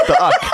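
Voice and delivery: The uck with uck said as a short flat clipped uh-k; mocking uck. A host mockingly calls the UK the uck, squeaky and high. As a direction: spit out the uck as one short grunt. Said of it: "he calls the U K uck".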